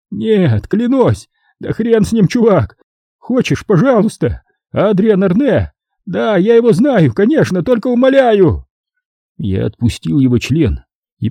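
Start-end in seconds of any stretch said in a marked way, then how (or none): 0.1-4.4 high, desperate caretaker pleading; begging. A narrator's reading. 4.7-5.7 «Адриан Арне!» blurted high in panic; panicked. A narrator's reading. Caretaker blurting the name. 6.0-8.7 high, desperate caretaker pleading; begging. A narrator's reading.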